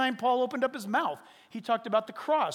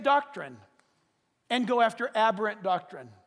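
forceful preaching; 4 dB louder than usual. Acted. Preacher warning the congregation, forceful scripture reading. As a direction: hammer the warnings home from the pulpit.

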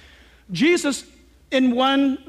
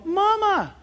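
mock scared yell; 7 semitones higher than usual. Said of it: "that guy could yell".

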